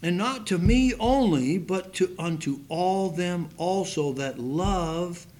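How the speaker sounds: measured pulpit reading of Second Timothy; scripture reading. Acted. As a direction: read the verse with weight. Reads scripture aloud.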